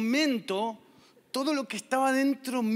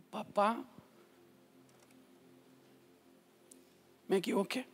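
put-on repentant boy; 4 semitones lower, 6 dB quieter than usual.

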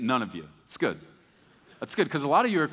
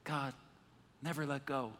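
much softer, hushed movie parody; mock Titanic hush; 3 semitones lower, 12 dB quieter than usual. Moses and God parodying Titanic, hushed and soft. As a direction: hush it like the famous film scene.

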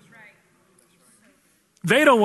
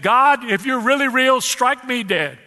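defiant professor; 5 semitones higher, 3 dB louder, slower than usual. Retold or imitated. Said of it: "And he said".

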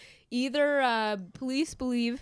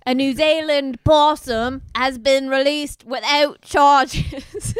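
higher, louder, giggling reread; the headline again, cracking up; laughing news read; 5 semitones higher, 7 dB louder, slower than usual. Shown as a demonstration. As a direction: fight back laughter on the headline.

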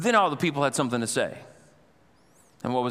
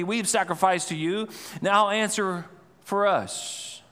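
mock pleading prophets; 4 semitones higher than usual. Preacher voicing prophets begging Baal, mock pleading cry. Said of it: "They're calling out".

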